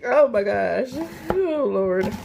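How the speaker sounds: high, laughing while crying; laughing through tears. Real, not acted. Tearing up from onions to her viewers, laughing through tears. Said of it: "I'm literally in tears".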